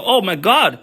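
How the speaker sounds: high, eager "oh my God"; mock excited newcomer. Newcomers spotting the handball game, excited and high.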